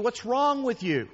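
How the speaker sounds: high, loud puzzled question; high-pitched friend asking what's wrong; friend, surprised. Retold or imitated. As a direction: ask it like the baffled buddy. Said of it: "he says to you".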